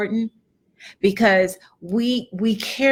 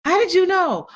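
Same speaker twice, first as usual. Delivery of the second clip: retold surprise; 7 semitones higher than usual. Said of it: "And I'm like".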